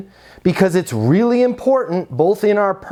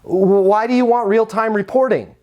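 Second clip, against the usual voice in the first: blunt question; 2 semitones higher than usual. Shown as a demonstration. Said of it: "So we say things like".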